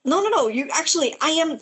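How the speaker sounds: lightly voiced flustered assassin; assassin's normal voice. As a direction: backpedal in a fluster. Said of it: "goes back to his usual, like, normal voice".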